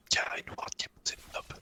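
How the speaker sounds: ordinary talk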